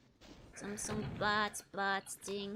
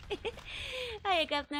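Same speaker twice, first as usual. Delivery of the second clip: put-on British accent; 10 semitones higher, much slower than usual. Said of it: "we love the accent".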